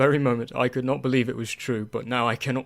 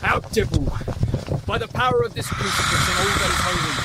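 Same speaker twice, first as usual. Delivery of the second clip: fervent banishing; 4 semitones higher than usual. Acted. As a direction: cast the devil out. Seward banishing Dracula with crucifix.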